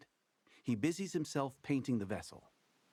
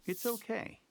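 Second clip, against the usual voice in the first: higher-pitched, gently reassuring; gentle reassurance; 12 semitones higher than usual. A narrator's reading. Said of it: "you say in a gentle, reassuring tone".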